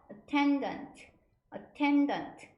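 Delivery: "attendant" slow, middle syllable stressed; pronunciation demo. Shown as a demonstration. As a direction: model "attendant" clearly, leaning on "ten". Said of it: "이렇게 발음하고요". ("attendant"의 ten을 강조해 또박또박)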